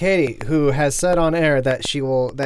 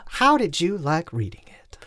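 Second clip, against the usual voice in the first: whispering. Real, not acted. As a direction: hush it like a secret. Whispered question to cohost.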